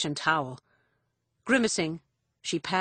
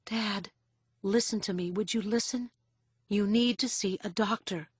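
gently urging; 3 semitones higher than usual. A narrator's reading. Daughter urging injured father to see doctor, gently urging.

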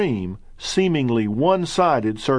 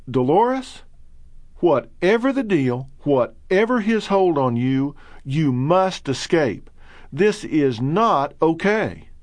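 higher, pressing, slow at the end; urgent plea; 5 semitones higher than usual. Retold or imitated. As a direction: beg her to get out. Urgent inner plea to patient.

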